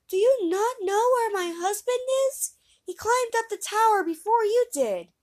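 a worried wife asking after her husband; anxious wife. Acted.

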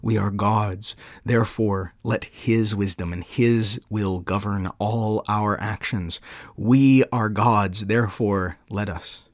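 measured devotional reading, building then settling; solemn quote reading. Acted. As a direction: read it out like a heartfelt creed, with deliberate pauses. Reads Calvin quotation aloud.

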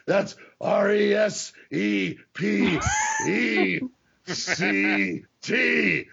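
slow, deliberate drill-instructor spelling; lightly voiced Marine drill sergeant demanding respect; Sergeant Slaughter impression. The host retells Sarge spelling out respect in a slow drill sergeant voice. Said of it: "Slaughter impersonation".

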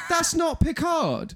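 high, drawn-out disbelief; indignant, high-pitched disbelief; incredulous protest. Real, not acted. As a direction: protest it slowly, pitched right up. Disbelief at the celebrity listing.

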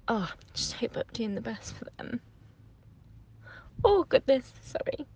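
whispered, choking back tears; trying to hold it together while upset; tearful. Real, not acted. Mother confiding mum guilt while crying, tearful whisper. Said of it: "Had a little cry".

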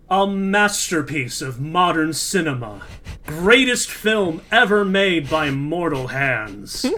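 movie trailer announcer, booming. Pretend. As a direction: read it like an epic trailer. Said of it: "trailer voice going".

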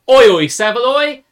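shouted greeting. Shown as a demonstration. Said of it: "That is a greeting".

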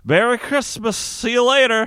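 high, sing-song farewell; cheery drunk Santa. Retold or imitated. Drunk Santa waving goodbye to the club, high cheery voice. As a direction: toss it off breezily as you stagger out. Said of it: "He's like".

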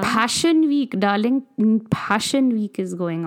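lightly put-on posh fashion accent, drawn-out darling; mild posh accent announcing Fashion Week; posh fashionista accent. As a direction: play a haughty fashion insider. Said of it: "I'm done with that accent".

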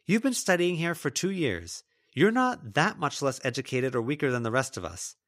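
high, heated accusing rant; angry tirade. Acted. Lila rants at Melody.

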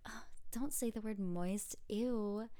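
lightly voiced pick-me type, a bit squeamish; imitating someone making a fuss over a word; mock pick-me whine. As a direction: put on a mildly disgusted pick-me act. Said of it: "It's such a pick-me thing to be like".

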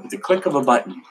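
playful put-on accent on "With the click of a button"; jokey mock accent. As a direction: toss the line out in a random comic accent. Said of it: "throwing random accents at you today".

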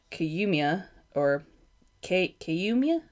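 feeling out the name Kiyumia slowly, ending on a questioning rise; tentative, slowed attempt at saying Kiyumia; unsure pronunciation. Real, not acted. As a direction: sound out Kiyumia haltingly, unsure of it. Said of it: "not entirely certain how to pronounce that".

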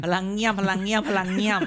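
giggling through พลังเงี่ยม said thrice; laughing tongue twister. Shown as a demonstration. Co-host dares him to repeat the phrase, laughing. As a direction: say พลังเงี่ยม three times fast through a laugh. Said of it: "ไหนพูดพลังเงี่ยมสักสามทีติดกัน".

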